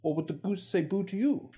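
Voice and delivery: high-pitched RP demo; Received Pronunciation, voice lifted. Shown as a demonstration. Presenter showing British vowels, in RP. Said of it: "R P".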